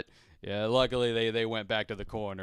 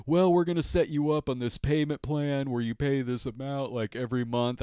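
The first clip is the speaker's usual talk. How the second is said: sales pitch; 4 semitones higher than usual. Retold or imitated. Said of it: "pitch, like they're selling you a timeshare".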